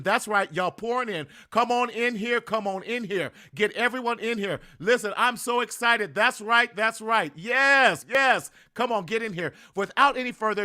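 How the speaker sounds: excited cheering host; hype build-up. Real, not acted. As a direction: pump up the room before the guest. Host hyping before introducing guest.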